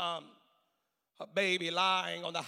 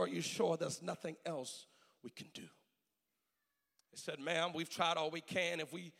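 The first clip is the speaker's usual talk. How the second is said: hushed, grave storytelling; 2 semitones lower, 5 dB quieter than usual. Retold or imitated. Preacher recounts mother signing away life support, hushed and grave. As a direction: drop the voice and let the pauses hang.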